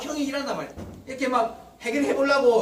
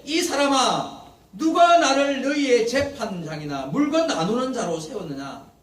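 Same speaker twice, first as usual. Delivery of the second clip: slow, louder stern rebuke from Jesus; angry rebuke; 5 dB louder, slower than usual. Acted. Jesus rebuking the man who asked about inheritance, slow stern anger. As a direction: drag it out like a scolding teacher. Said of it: "화가 났어요".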